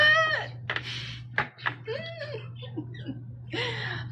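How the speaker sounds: high, soft, trailing laugh. Real, not acted. Reader reacting to a new start coming, high laugh. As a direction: let a squeaky laugh tail away softly.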